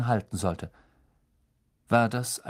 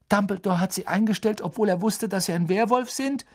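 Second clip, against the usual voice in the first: put-on higher, fast, incredulous boy's voice; snorted disbelief; 10 semitones higher, faster than usual. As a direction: snort it out in shock. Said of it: "schnaubte Ron mit aufgerissenen Augen".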